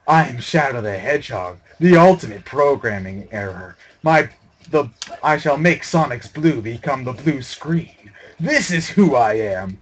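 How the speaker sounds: lightly voiced edgy hedgehog boasting; mock Shadow speech. Gamer mocking the glitching Shadow as a brooding hero, hammed-up speech. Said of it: "I'm not very good at making Shadow speeches".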